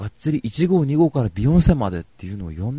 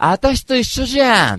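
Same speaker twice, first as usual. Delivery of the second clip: very high, loud, drawn-out imitation; slow it down and blare it high; loud-voiced party girl; 14 semitones higher, 9 dB louder, slower than usual. Party girl claiming kinship with Johnny, loud imitation. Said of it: "やたらと声がでかい".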